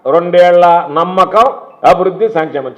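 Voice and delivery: slow, drawn-out mock movie-title announcement; like a film title. Politician mocking a rival's slogan, drawn-out mock title. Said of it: "ఒక cinema title లాగా".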